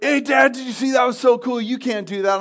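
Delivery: put-on high, bright-eyed kid taunting his dad; excited little boy. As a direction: brag like a cocky four-year-old. Four-year-old son taunting dad.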